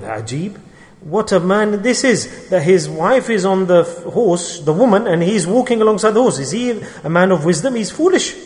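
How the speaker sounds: imitated ridicule, pitch lifting toward the end; mocking passers-by. Passers-by making fun of a man walking beside his horse, mocking. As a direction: act out onlookers poking fun, climbing to an incredulous high finish. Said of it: "they were making fun of him".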